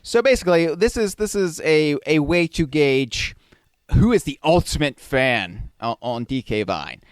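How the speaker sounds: lightly voiced salesman pitch; a hint of a slick huckster; snake oil seller. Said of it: "the pitchman voice".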